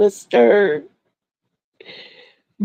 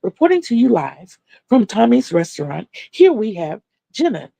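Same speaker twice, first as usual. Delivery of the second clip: mock reporter; 3 semitones higher than usual. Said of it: "I'm like".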